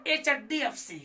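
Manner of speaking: "एचडीएफ़सी" run together so its start sounds like "चड्डी"; misread as चड्डी. Retold or imitated. Teacher imitating confused readers, "एचडीएफ़सी" misread as one word. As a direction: blur the letters of "एचडीएफ़सी" into one word with a doubled d. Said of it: "कुछ लोग पढ़ इसको".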